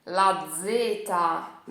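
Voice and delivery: very slow, loud "la zeta"; slow Italian zeta. Shown as a demonstration. Teacher introducing the letter, slow and loud. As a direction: draw out "la zeta" syllable by syllable.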